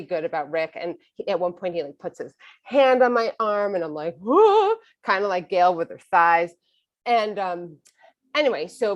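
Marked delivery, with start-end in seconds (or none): 4.2-4.8 high, loud thrilled swoop; giddy squeal at a touch; thrilled whoa. Retold or imitated. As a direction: let out a swooning high whoop. Thrilled when he touches her arm.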